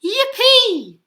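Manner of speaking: very high, loud whoop; cried-out cheer. A narrator's reading. Tyrannosaurs finding a bridge, cried-out cheer. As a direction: let out a big gleeful cheer. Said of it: "the T's cried out".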